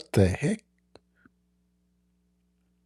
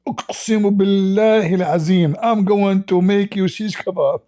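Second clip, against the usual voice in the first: higher, hammed-up threat in a woman's voice; mock angry woman; 8 semitones higher than usual. Host imitating the angry woman threatening the man, hammed-up high. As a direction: swear the oath like a mock avenging wife.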